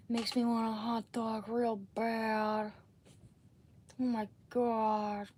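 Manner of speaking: breathy drawn-out celebrity drawl; Jennifer Coolidge voice. Pretend. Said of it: "How am I gonna do with Jennifer Coolidge?".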